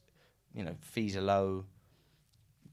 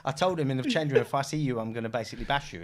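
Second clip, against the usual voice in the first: higher, louder mock tough-guy threat; hammed-up changing-room threat; 3 semitones higher, 6 dB louder than usual. Retelling footballer's threat.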